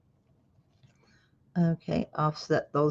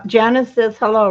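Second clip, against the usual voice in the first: raised voice, higher and louder; calling out; 4 semitones higher, 7 dB louder than usual. Real, not acted. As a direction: pass the message across the room. Relaying a message across the room.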